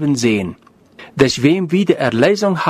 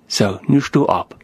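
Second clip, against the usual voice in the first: a lower, softer, gentle retold command; calm and quiet; 4 semitones lower than usual. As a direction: settle the boy with a quiet word. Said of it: "sagt er ganz ruhig". (ruhig und leise gesprochen)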